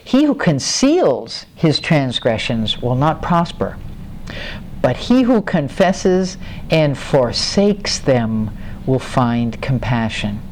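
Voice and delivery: slow, measured verse reading; scripture reading. Acted. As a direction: read it deliberately, leaving weighty pauses. Reads a Bible verse aloud.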